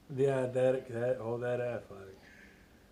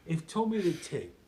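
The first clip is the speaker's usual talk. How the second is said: slow mock-Cockney gangster line; drawn-out fake Cockney, settling down at the end; Jason Statham; 3 semitones higher, slower than usual. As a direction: deliver it as a Cockney film tough. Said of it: "pretty good, Jason. Say that".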